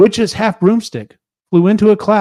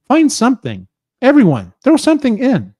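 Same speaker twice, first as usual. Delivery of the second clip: higher, eager orders; witch with a grin; 8 semitones higher than usual. Acted. Witch urging her friends to fill the cauldron, eager. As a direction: call the crew to the cauldron.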